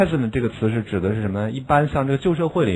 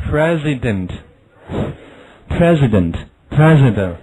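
very slow, drawn-out drill; slow model reading; 3 dB louder, much slower than usual. Shown as a demonstration. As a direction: lay out "President" syllable by syllable. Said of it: "好，下面".

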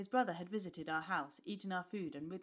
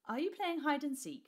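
laughing; 9 semitones higher, 6 dB louder than usual. A narrator's reading. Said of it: "she laughed".

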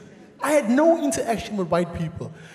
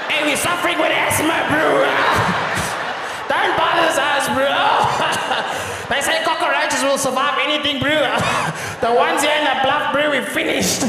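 cockroach voice; 5 semitones higher than usual. Acted. Cockroaches voiced as Bluff locals.

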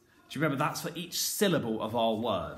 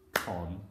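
"Conversation" broken into four spaced, low beats; syllable by syllable; 7 semitones lower, 4 dB quieter, much faster than usual. Shown as a demonstration. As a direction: say "Conversation" one syllable per clap. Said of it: "count my claps".

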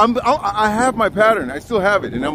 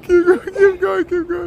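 calling out; 10 semitones higher than usual. Real, not acted. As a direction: call ahead to keep them walking. Calling out while walking off.

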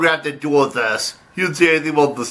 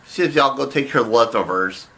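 shout; 3 semitones lower than usual. Acted. Alarm as the cat returns.

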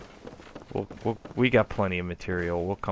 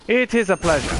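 Edgar Poe voice; 10 semitones higher, 7 dB louder than usual. Acted. Voicing Edgar Poe character.

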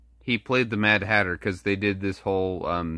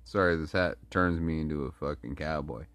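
mock cowboy accent, pitched down; put-on cowboy accent; 6 semitones lower, 6 dB quieter than usual. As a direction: play at a cowboy accent, low and easy. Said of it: "that accent that you hear, that's not my natural accent".

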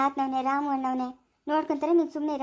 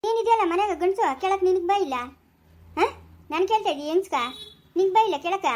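angry scolding; 3 semitones higher, 3 dB louder than usual. Acted. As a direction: push him hard for staying silent. Wife berates husband for silence. (ಗಂಡನನ್ನು ಜೋರಾಗಿ ಬಯ್ಯುವ ಹೆಂಡತಿ, ಸಿಟ್ಟು)

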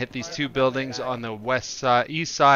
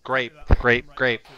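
loud repeat; 5 dB louder, slower than usual. Real, not acted. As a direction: repeat it louder and clearly over the radio. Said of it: "Which O B J?".

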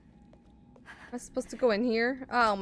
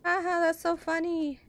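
high, fake mocking ha-ha; imitating a mean girl laughing; 7 semitones higher than usual. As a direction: sneer like a bratty girl. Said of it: "'Cause she's like".

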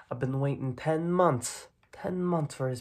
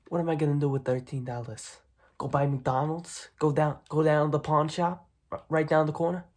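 louder, mocking questions; sarcastic outburst; 2 semitones higher, 7 dB louder than usual. Mob boss mocking the kid's thirteen dollars, sarcastic. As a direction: scoff at the tiny sum.

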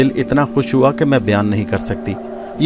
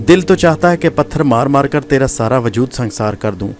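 raised, bitter tirade against a traitor; furious accusation. Acted. Gohar accusing Nadir of killing her father, in a furious tirade. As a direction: pour out years of hatred at him. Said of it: "نفرت اور قہر کی بجلیاں برس رہی تھیں".

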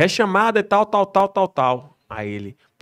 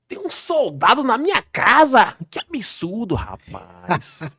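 mock outrage, higher and slower, stretched out; indignant rich man; 5 semitones higher, 4 dB louder, much slower than usual. Officer imitates the rich husband scorning him, haughty mock outrage. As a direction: play the snobbish homeowner offended by a mere soldier.

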